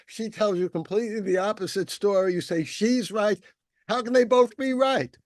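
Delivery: indignant wife. Retold or imitated. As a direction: scold him, building to an outraged question. Rabbi's wife scolds her husband.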